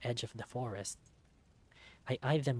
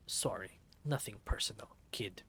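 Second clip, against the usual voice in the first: cold whisper; 3 semitones lower, 3 dB quieter than usual. Acted. Killer whispering.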